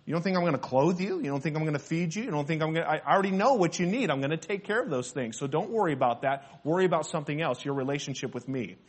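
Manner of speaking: hushed, quick, reassuring voice of God; lightly voiced God, soft and close; God's gentle reassurance. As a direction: softly reassure the worried listener as God. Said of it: "he appeals to the greater".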